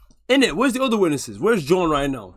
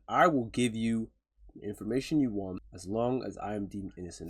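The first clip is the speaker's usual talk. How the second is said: quiet mock quote; 5 semitones lower, 9 dB quieter than usual. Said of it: "and saying".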